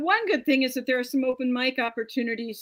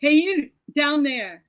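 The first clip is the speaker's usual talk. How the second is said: slow, louder drag-star call; 3 semitones higher, 7 dB louder than usual. Acted. Jesus calls from the cross as a drag star. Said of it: "sounds like a drag star".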